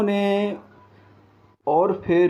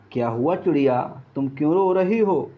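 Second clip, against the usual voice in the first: put-on an old grandfather comforting a child; kind old man; faster than usual. Old man asks crying bird. (रोती चिड़िया से पूछते दयालु बूढ़े बाबा)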